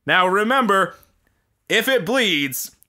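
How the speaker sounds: deadpan mock news anchor read. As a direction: read it like a cheesy local anchor.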